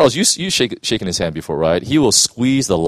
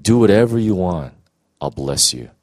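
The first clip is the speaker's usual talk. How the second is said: God's tender voice. Retold or imitated. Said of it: "This voice was so simple".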